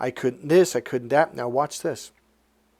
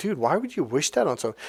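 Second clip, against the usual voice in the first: plain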